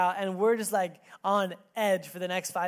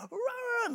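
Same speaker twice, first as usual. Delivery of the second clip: raccoon noise. Retold or imitated. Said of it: "these crazy raccoon sounds".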